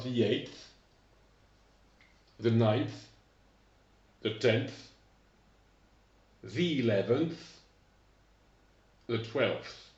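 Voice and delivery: teacher demo of ordinal endings, pausing for the class; English ordinals modelled. Shown as a demonstration. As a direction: model each ordinal slowly for repetition. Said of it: "répétez après moi".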